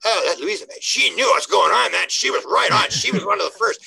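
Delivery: mock a proud descendant in awe; admiring descendant. Great-grandchildren in five hundred years praising Louisa, lightly admiring. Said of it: "great-great-grandchildren are gonna say".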